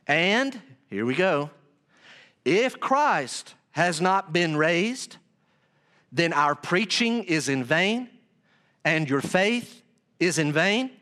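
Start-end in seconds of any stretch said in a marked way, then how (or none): 2.4-10.9 slow, deliberate verse reading; measured pulpit reading; scripture reading. Acted. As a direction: read each phrase with weight and pauses. Reads scripture with weight.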